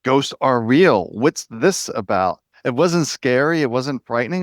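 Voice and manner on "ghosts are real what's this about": slow, drawn-out "oh" of discovery; slowly dawning, intrigued; curious realization. Retold or imitated. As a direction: retell a moment of wondering discovery, unafraid. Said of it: "just more of a curiosity".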